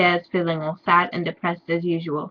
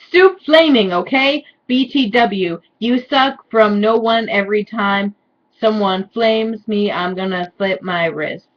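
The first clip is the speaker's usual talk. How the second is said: mock author voice. Reading author's note mockingly.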